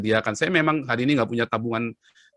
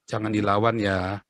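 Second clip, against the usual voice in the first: slower, lower fatherly caution; father's advice; 4 semitones lower, slower than usual. Retold or imitated. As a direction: gently warn a child off fighting. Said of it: "ayah saya selalu bilang apa".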